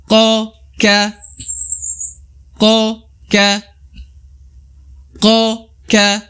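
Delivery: gho, kho, ko, ka chanted high; recitation drill. Shown as a demonstration. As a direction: call out each letter to repeat. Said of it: "teman-teman bisa ikuti".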